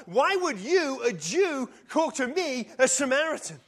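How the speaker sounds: quick, indignant burst of questions; woman blurting out her surprise at Jesus; blurted out. Acted. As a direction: blurt it out in disbelief. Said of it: "She blurts out".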